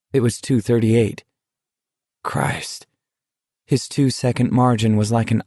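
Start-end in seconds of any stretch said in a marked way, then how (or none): 2.2-2.9 low, soft oath. A narrator's reading. Dread at the time left.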